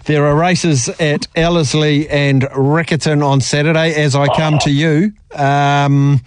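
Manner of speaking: measured racing presenter delivery, slightly put on; lightly hammed-up racecourse presenter voice; trackside presenter. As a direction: do your best trackside presenter, drawing out the race meetings. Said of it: "in my best trackside presenter voice".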